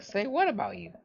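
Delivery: high, mock indignant question; retold surprise. Teen retelling her confused reply to Noah, high and surprised. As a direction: act out being caught off guard.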